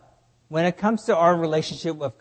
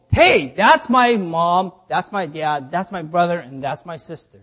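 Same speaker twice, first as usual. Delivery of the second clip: bold, emphatic declaration. Acted. Preacher as Jesus publicly claiming his family, bold and emphatic. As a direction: announce it out loud, boldly. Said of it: "Jesus is saying very emphatically, declaring out loud, very boldly".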